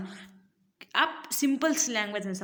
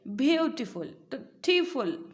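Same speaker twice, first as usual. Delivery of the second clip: "ब्यूटीफुल", then "टीफुल" drawn out with stress on टी; slower than usual. Shown as a demonstration. Teacher showing where stress falls, emphasis on टी in "ब्यूटीफुल". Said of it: "आपने stress दे करके बोला".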